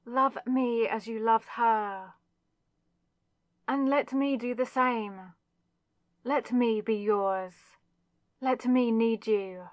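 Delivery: intense, pleading insistence; desperate demand. Acted. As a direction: press each plea harder, possessive and urgent.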